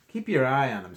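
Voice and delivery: loud storyteller warning; mock urgent warning. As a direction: warn the kids dramatically. Kelly warns the children.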